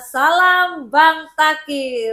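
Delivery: show sign-off. Acted. Host closing the episode to listeners with a loud drawn-out sign-off. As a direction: stretch out the show's slogan like a host.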